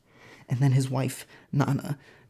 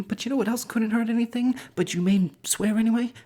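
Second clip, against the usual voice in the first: incredulous rant; 9 semitones higher than usual. Acted. Frigga's mock rant about mistletoe.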